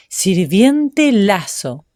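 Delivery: SIRVIENTE and LAZO each drawn out slowly, separately stressed; read aloud, stressing each word. A narrator's reading. Duke reads the inscription aloud, slowly stressing each word. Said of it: "las leyó en voz alta, insistiendo en cada una".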